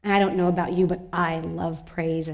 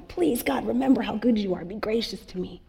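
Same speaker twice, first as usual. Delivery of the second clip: timid begging plea; 3 semitones higher than usual. Retold or imitated. Pastor imitating a fearful sinner begging an angry God, timid plea. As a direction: beg nervously, afraid of an angry God. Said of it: "you might hear that as".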